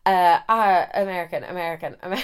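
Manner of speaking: fumbled attempt at an American accent; testing out an American twang, haltingly. Shown as a demonstration. Storyteller searching for the American guy's voice, fumbled American accent. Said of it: "I actually can't do these accents".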